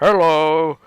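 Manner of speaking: imitating the shopkeeper's busted-nose greeting; a teasing copy of the broken-nosed shopkeeper; mock broken-nose hello. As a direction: parrot his hello as if your nose were broken. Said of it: "Did someone punch you in the nose".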